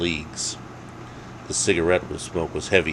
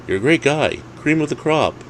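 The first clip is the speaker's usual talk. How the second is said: much higher eager friend voice; butter him up, pitched high; friend's voice; 9 semitones higher than usual. Acted. Jake flattering Dave before bad news, high voice.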